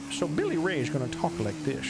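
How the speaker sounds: light southern twang; southern accent. Shown as a demonstration. Streamer shows how his character will talk, light southern accent. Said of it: "I'm gonna do a southern accent".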